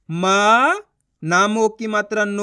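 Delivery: म long and rising, then नो held out; spelling out syllables. Shown as a demonstration. Teacher asking learners to watch the method, sounding out. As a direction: model it slowly, stretching म and नो. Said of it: "मैं किस तरीके से".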